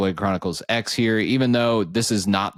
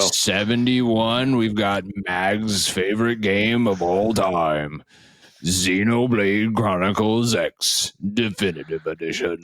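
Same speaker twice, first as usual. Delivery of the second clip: announcer voice. Acted. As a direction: announce each title like a trophy. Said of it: "He's got that announcer voice".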